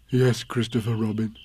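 slightly put-on bear voice, helpful; helpful prompting. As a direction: gently prompt him to continue. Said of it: "said Pooh helpfully".

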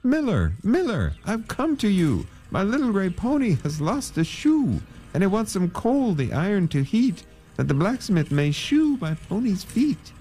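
very high-pitched pleading call. A narrator's reading. Man calls to the dusty miller for coal, high pleading call. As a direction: call out high and beg for help. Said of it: "called to the dusty miller".

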